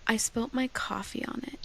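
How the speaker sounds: daughter whispering the confession; guilty whisper. Retold or imitated. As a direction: whisper it like you know you're in trouble. Daughter admits guilty secret.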